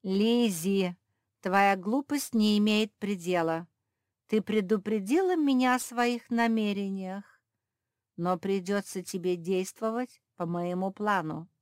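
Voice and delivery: loud, scornful cat villain; loud domineering villain cat; mocking villain cat. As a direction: sneer at the foolish friends and order Lizzie. Cat mocks and threatens Lizzie.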